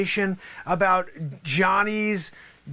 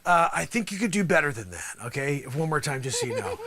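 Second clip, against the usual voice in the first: ordinary talk, nothing marked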